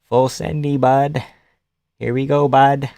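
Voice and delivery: lightly put-on Canadian accent; attempted Canadian accent. Streamer playing a Canadian fan, mock Canadian accent. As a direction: try a casual Canadian accent. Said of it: "That's not Canadian".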